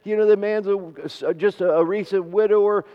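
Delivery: imitated worry, stumbling over the words; worried mother. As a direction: act out a fretting mother, a touch flustered. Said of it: "she was so scared".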